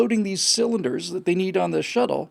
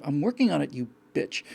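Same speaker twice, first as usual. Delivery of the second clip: unsaid snide retort. Retold or imitated. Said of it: "this unsaid kind of".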